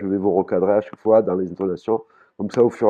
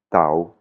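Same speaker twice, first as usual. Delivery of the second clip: TAO stretched, the sound dropping; falling tone. Shown as a demonstration. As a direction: let "tao" fall slowly. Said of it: "il tombe, le son".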